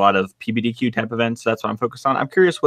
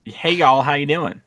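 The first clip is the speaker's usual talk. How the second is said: southern greeting; 5 semitones higher, slower than usual. Acted. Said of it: "I would have said it with more southern twang".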